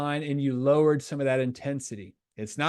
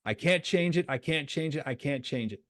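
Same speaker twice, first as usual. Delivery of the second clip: letting go. Shown as a demonstration. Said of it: "When you go".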